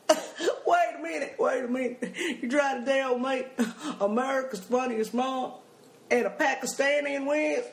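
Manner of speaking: laughing. Retold or imitated. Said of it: "he starts laughing".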